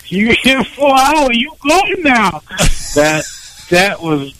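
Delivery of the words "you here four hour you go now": high, slow mock Asian accent; drawn-out, high Asian-accent impression. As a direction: scold in a caricatured Asian accent, pitched up. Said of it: "heard you doing it".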